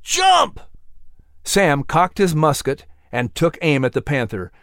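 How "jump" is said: high, shouted dog voice; barking dog. A narrator's reading. Dog Max yelling at Patrick to jump, high shout. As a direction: bark the words out at the boy. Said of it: "Max barked".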